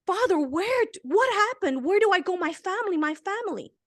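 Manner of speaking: a desperate father's plea, lightly acted; imitating crying prayer. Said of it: "he fell on his knees crying".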